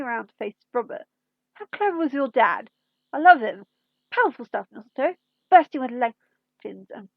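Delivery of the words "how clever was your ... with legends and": louder, gleeful rush; delighted Doctor. Acted. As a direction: burst out with delight at the discovery.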